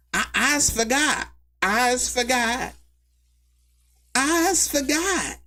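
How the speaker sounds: high, slow silly voice; mock dumb voice. Streamer mocking the witness who forgot, high and slow. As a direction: play the witness as clueless.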